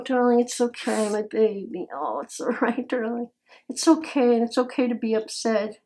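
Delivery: calm her down gently; soothing comfort. Real, not acted.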